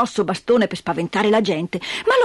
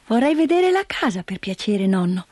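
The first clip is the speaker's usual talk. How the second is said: put-on polite little girl. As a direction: ask nicely like a small girl. Heidi asks politely.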